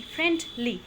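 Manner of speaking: "फ्रेंडली" broken into two beats; split into syllables. Shown as a demonstration. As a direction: say "फ्रेंडली" with a small break before ली. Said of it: "एक सांस ले ली हल्की सी". ("फ्रेंडली" को दो हिस्सों में तोड़कर)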